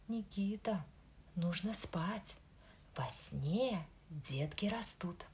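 soft, slow, calming mother voice; gentle mother. Acted. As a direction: coax the child to sleep softly. Mother soothing child to sleep. (мягкий мамин голос)

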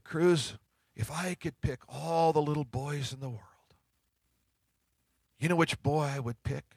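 put-on soft, hushed fatherly whisper to a little boy; a father's soft secret to his son; tender hush. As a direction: lean in close and whisper it gently.

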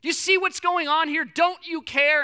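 loud, high cry of accusation; acted desperate plea. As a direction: cry out as panicked disciples demanding an answer. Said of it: "they are freaking out".

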